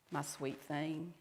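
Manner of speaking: soft, slow, tender endearment; tender whispering God. Acted. God speaking over a fearful woman, tender and soft. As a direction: say it gently, like cradling someone. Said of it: "God who whispers over me".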